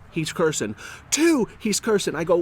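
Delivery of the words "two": high called-out number; retold countdown. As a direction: replay the warning count, pitched up.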